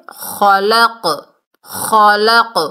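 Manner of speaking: خلق ending in an echoed ق; qalqalah on qaf. Shown as a demonstration. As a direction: let the final ق of خلق bounce. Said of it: "قاف کی double sound آئے گی". (خلق میں ق کی ڈبل آواز)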